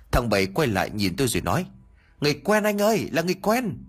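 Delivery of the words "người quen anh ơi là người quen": much higher, delighted cry; excited. Acted. Bảy tells his friend the boatman is known, excited and high. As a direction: bubble over with relief.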